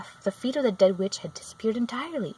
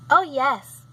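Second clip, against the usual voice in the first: put-on bright eager girl, a touch higher; Dorothy piping up quickly; light girl's voice; 7 semitones higher, 9 dB louder than usual. A narrator's reading. Dorothy answers the witch: a light eager girl's yes.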